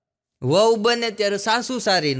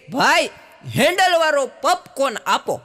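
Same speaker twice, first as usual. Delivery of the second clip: put-on posh girl voice; 7 semitones higher, 4 dB louder than usual. The girl orders in a fancy voice.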